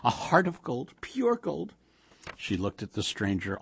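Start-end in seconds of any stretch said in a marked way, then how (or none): 0.0-1.7 high, sing-song praise; lightly voiced Yiddish old woman; admiring old wife. A narrator's reading. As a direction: kvell over the good son. Old wife praises Ginsberg's son.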